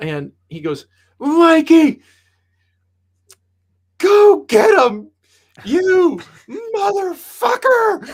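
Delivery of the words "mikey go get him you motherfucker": very high, very loud, stretched-out scream. Retelling a guy screaming at him on his first NHL recall: retelling a scream. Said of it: "he's screaming at me".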